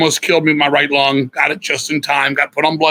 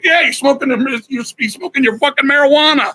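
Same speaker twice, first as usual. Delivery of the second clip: sarcastic jab; 10 semitones higher than usual. Real, not acted. Mocking why the man was nice.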